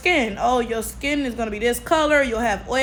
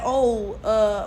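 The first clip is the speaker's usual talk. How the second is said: ordinary talk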